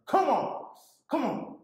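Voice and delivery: rising urgent come on; raging gamer. Acted. Intensely playing Madden online.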